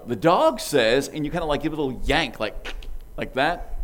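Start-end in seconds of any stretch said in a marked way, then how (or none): 0.1-1.1 slow toy recording, cut off; a pull-string toy stopping mid-line; talking toy voice. Retold or imitated. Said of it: "it would say".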